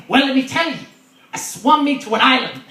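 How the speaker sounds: high, loud pirate voice. Acted. Pirate answering about his hook, loud pirate voice. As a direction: launch into a pirate's tall tale. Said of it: "And he's like".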